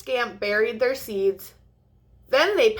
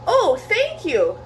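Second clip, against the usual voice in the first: higher, bright grateful thanks; a touch of glee, raised and loud; happy cry; 7 semitones higher, 4 dB louder than usual. Acted. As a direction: thank him with delight. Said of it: "cried Scurry happily".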